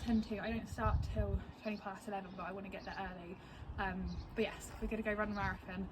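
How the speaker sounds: hushed morning voice; quiet. Real, not acted. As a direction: talk softly, people nearby.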